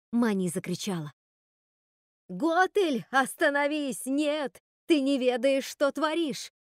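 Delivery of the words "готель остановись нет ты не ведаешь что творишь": крик ведьмы. Acted. Мать-ведьма кричит дочери.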